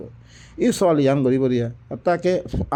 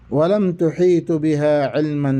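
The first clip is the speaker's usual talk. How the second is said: Quran recitation; slower than usual. Acted. Verse fragment recited.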